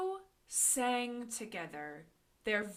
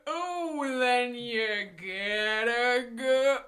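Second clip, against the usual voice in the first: slow sloth voice; 3 semitones lower, much slower than usual. Acted. Slow sung farewell.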